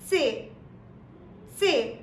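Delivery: "C" with a short t at the start, like tsay; German C again. Shown as a demonstration. Teacher repeats the German C so viewers hear the t. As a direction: model "C" with the t sound first. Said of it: "the pronunciation goes something like".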